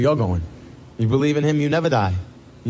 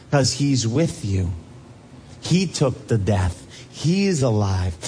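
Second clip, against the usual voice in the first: tender reassurance; 5 semitones lower than usual. Acted. Comforting the dying, quoting Jesus.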